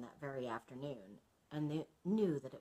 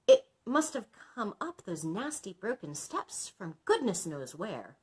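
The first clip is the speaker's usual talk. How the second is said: trembling; 4 semitones higher, 7 dB louder than usual. Acted. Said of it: "trembling all over".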